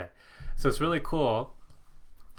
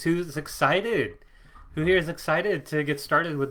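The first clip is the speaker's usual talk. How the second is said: excited hype-up; 4 semitones higher, 4 dB louder than usual. Real, not acted. Hyping up live chat audience.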